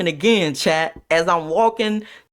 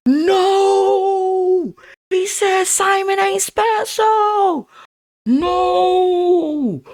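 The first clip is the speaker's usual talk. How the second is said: high, long drawn-out wail of horror; hammed-up scandalized crowd, slow and high; mock collective shock; 12 semitones higher, much slower than usual. Classmates reacting to the remark, exaggeratedly shocked.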